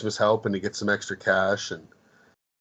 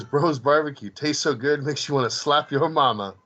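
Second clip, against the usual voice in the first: higher-pitched mock ad slogan; imitated commercial slogan; 4 semitones higher than usual. Movie fan quoting the barbecue commercial, mock ad pitch. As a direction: deliver it like a goofy commercial tagline. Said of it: "But their slogan is".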